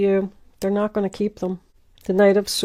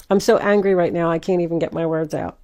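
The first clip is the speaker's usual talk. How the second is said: mock angry outburst; faster than usual. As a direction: play the partner mid-argument, mildly worked up. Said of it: "you might even say that in the middle of the argument".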